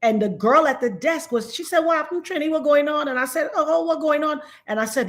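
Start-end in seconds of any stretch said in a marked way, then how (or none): 1.8-3.1 lively Trini patois greeting; Trinidadian patois. Retold or imitated. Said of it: "I was in patois". 3.5-4.4 retold reply in Trinidadian patois; casual Trinidadian patois. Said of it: "I was in patois".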